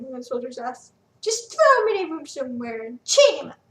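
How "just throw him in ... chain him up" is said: louder, impatient order; harsh command. Acted. Quintus commanding his soldiers to chain Felix, loud. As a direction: throw the order at them.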